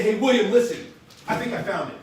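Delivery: emphatic, urgent phone pitch; excited invitation. Acted. Trainer shows how to invite William, excited and urgent. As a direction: sell a big discovery to a friend. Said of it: "if I talk like that".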